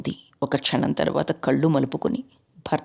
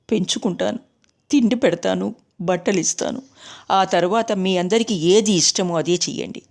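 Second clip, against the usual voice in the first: lightly voiced pleading young wife; a gentle hint of a wife pleading. A narrator's reading. Hemangini pleads for the boy.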